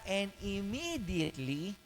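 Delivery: "immediately" slowed and spaced out for notice; stress on immediately. Shown as a demonstration. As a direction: draw out "immediately" so listeners take note. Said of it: "take note ha".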